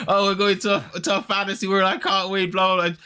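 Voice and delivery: high, breathless-with-excitement fangirl babble; excited gushing. Retold or imitated. Secret nerd thrilled about a fantasy world, high gushing.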